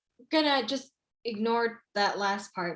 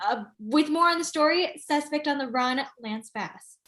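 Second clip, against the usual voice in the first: crisp TV news anchor read. Acted. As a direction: deliver it like breaking news. Reads a news bulletin.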